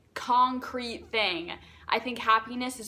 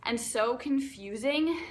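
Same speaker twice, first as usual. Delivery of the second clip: excited. Real, not acted. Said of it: "I'm getting very excited about this".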